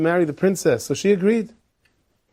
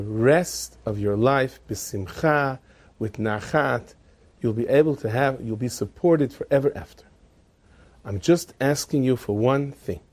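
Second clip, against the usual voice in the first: measured appeal; 3 semitones lower than usual. Acted. Father-in-law offering money to son's wife, measured. Solemn offer to buy her off.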